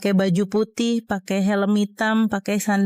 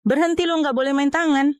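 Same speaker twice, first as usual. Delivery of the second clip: shouting stop; 5 semitones higher than usual. Acted. Stopping a beating.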